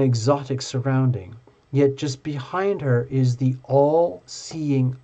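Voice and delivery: slow, weighty oracle reading voice; slow oracle reading to Tina; slow dramatic reading. Acted. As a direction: read it like a solemn prophecy, slowly. Reads card text in held style.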